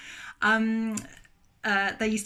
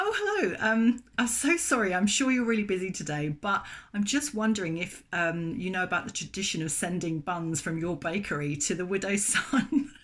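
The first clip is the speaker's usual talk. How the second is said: sweetly polite, pitched way up. Retold or imitated. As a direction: ask the busy baker very politely. Calling the bakery owner.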